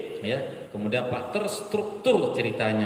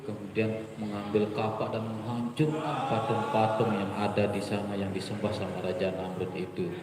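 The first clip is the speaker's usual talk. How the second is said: flat dull storytelling; 5 semitones lower, 5 dB quieter than usual. Shown as a demonstration. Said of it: "Nah, kemudian".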